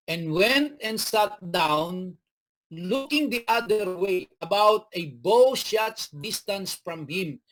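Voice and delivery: slow, measured Bible reading; unhurried scripture read. Acted. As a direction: read the verse slowly to the congregation. Preacher reads scripture aloud.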